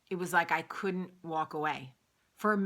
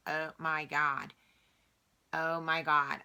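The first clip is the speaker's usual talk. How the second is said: put-on botched Minnesota-style accent, slow drawn-out first go; exaggerated, unplaceable Minnesota-ish accent; attempted Minnesota accent; slower than usual. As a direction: try a Minnesota accent and miss. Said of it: "like, your accent changes? You, you start talking like you're from Minnesota".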